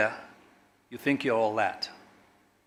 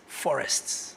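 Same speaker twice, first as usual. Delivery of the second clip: hushed echo; 5 dB quieter than usual. Acted. Speech lament, word echoed after.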